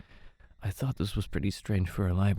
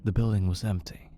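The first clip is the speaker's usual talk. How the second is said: ordinary delivery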